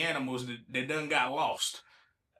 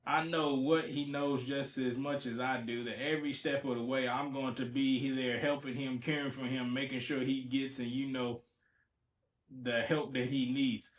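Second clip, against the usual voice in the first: low, soft, even read-aloud; reading a quote aloud; 4 semitones lower, 6 dB quieter than usual. Acted. Host reading out the owner's words, low subdued reading. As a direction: read it out quietly from the article.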